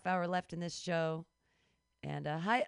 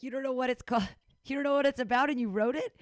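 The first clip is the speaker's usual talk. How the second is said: laughing disbelief; 3 semitones higher, 6 dB louder, faster than usual. Real, not acted. Teasing disbelief.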